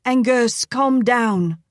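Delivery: high cautious wife; cautioning wife. Acted. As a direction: soothe your husband, pitched high. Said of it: "Layla cautioned".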